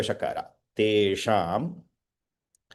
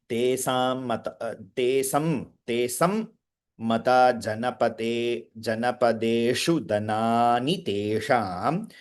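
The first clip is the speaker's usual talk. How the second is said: steady, measured Sanskrit verse recitation. Shown as a demonstration. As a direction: recite the whole shloka evenly. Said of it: "recites the full verse".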